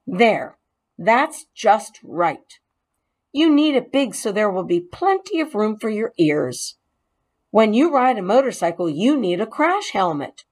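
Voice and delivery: a hint of a pleased boy; satisfied, fitting the helmet just right; lightly voiced boy. Boy fitting a helmet on the mouse, pleased.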